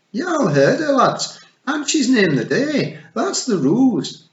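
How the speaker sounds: high, loud Scottish shout. A narrator's reading. Rob Anybody shouting the ruling to the lads, loud. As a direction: bellow at the lads.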